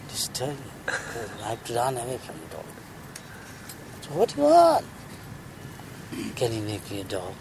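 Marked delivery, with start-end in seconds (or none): 4.0-4.9 high sage voice asking. Acted. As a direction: raise into the sage's voice. Sage asks the cat.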